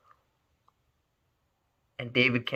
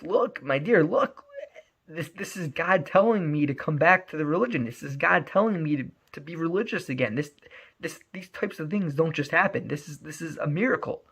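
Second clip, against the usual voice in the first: raised, earnest pleading voice; 5 semitones higher than usual. Retold or imitated. David pleads with his girlfriend to stay in Israel, raised and earnest. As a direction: beg her to see the miracle.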